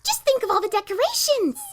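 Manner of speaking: bouncy, eager and high; giddy at the thought of decorating; excited. Acted. Pinkie spinning in place, gushing excitedly. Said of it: "spinning in place with excitement".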